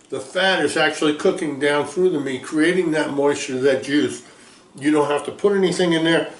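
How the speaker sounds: talking with a mouth full of food. Real, not acted. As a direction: chew and talk through the mouthful. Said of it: "I know I'm talking with my mouth full".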